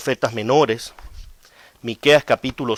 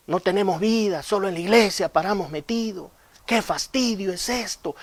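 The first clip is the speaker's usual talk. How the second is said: whiny complaint; 4 semitones higher than usual. Acted. Voicing complaining church members.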